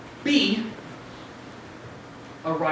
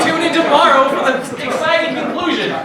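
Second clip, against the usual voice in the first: TV host sign-off; 4 semitones higher, 4 dB louder than usual. Acted. Host signs off show.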